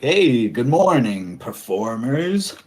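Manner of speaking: slow, drawn-out greeting; lightly voiced clown. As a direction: stretch the hello out slowly to the pirates. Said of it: "they're like".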